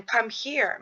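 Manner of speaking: "Come here" lifted, "come" stressed with a falling end; calling a child. Shown as a demonstration. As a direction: beckon a toddler gently. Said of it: "to kind of show a".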